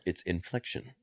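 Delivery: INFLECTION said slowly with deliberate inflection; slow demo reading of "inflection"; varied inflection. Shown as a demonstration. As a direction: draw out "inflection" to show its tune. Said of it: "It's just inflection".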